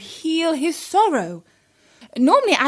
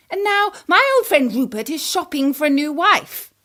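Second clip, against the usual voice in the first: scornful stepmother queen. Acted. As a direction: dismiss her grief with lively disdain. Queen dismisses princess's grief.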